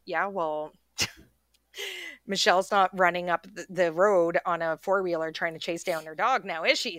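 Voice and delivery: rising mocking taunt aimed at dad; lightly voiced sarcastic jab; retold comeback. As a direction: needle your father with a gotcha. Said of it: "And I'm like".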